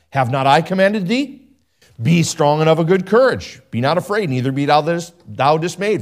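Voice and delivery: solemn King James reading, firm and proclaiming; scripture reading. Acted. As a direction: read it like God's charge to Joshua. Reads Joshua aloud from scripture.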